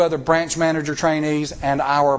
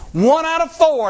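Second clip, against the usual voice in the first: emphatic exclamation; 12 semitones higher, 6 dB louder than usual. Real, not acted. Emphatic aside on odd one out.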